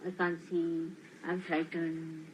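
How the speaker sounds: low, very slow whimper; mock frightened mumble. Teacher mocking disciples who fear the dark, low and slow. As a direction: drag out the fear timidly. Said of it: "Still you mean".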